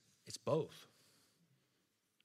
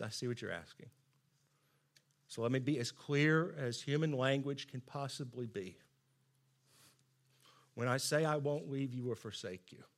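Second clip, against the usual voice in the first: gentle pity; 2 semitones lower, 5 dB quieter than usual. Acted. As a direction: explain it quietly and tenderly, as if to a doubter. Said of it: "looks at us in pity".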